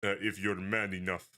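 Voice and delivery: put-on lightly Russian-accented lady; a hint of a Russian mob wife. A mob wife greeting strangers at her gate, light Russian accent. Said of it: "like, a Russian voice".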